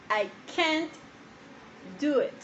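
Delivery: "I can't do it" with a clear T on "can't"; "can't" lifted a little, T heard; slow model sentence. Shown as a demonstration. Teacher modeling "can't" with an audible T. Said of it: "la terminación que se siente en T".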